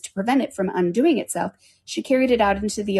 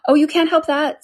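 high, louder airy retort; lightly voiced cat, pitched up; Cheshire Cat; 9 semitones higher, 6 dB louder than usual. The cat answers Alice's objection, lightly dismissive.

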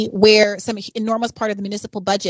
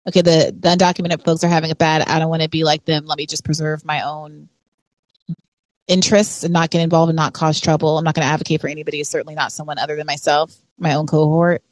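lower, guarded inner voice of a worker looking out for himself; self-interested worker voice; 5 semitones lower than usual. Retold or imitated. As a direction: voice the worker who won't get involved. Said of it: "continues to divide folks into thinking".

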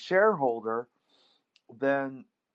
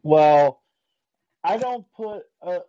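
far from mic; 4 semitones higher, 8 dB louder than usual. Real, not acted. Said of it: "it sounds like you're far away from your microphone".

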